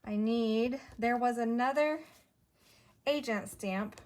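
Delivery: winded, breathy talk; out of breath. Real, not acted. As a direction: speak a little out of breath. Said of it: "I don't know why I'm so winded".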